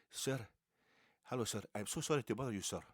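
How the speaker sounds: quick, eager, overly polite stranger; lightly voiced smiling salesman at the door; polite Jehovah's Witness. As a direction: doorstep preacher greeting the homeowner, overly polite. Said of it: "and he goes".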